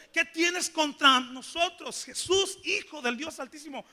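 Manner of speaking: pleading demoniac. Acted. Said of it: "viene clamando, viene suplicando". (el endemoniado suplicando a Jesús, lento y agudo)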